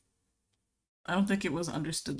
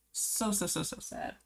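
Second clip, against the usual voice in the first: a soft, sad whisper on the last words; mock-sorrowful whisper; whispered sadness; 7 dB quieter than usual. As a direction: let it fade into a pitying whisper. Talking about her sad cat.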